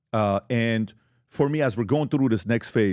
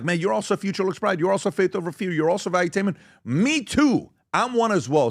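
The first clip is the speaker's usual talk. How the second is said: much higher, delighted fan voice; excited fan; 8 semitones higher than usual. Retold or imitated. Fans spotting each other's merch, excited and high. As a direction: gush like a fan who spots a fellow fan. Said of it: "they're looking at each other like".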